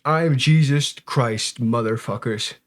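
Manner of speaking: slow, drawn-out mock proclamation; mock grand declaration. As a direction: announce it slowly like a prophet. Mocking the man's outburst.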